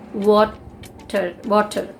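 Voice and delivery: "water" with clear T and sounded R; Indian pronunciation. Shown as a demonstration. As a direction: say "water" as WAW-ter, R pronounced. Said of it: "We call this water".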